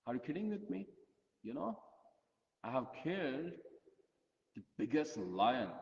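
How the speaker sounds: mad. Retold or imitated. Sister snaps back at her teasing brother, indignant. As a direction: bristle at the insult and boast hard. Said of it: "She became so mad on him".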